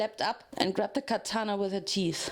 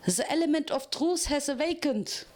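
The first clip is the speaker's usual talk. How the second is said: cried out; 5 semitones higher than usual. Acted. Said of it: "Photo Finish cried".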